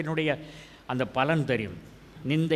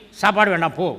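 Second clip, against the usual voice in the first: curt, sulky brush-off, a bit louder; mock angry refusal; 4 dB louder, faster than usual. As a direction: snap it like a sulking husband. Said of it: "நம்ம கோபத்தை காட்டுறது எப்படி?".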